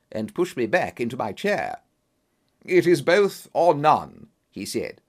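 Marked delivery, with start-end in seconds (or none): 2.6-4.3 firm. Acted. Holmes insists firmly.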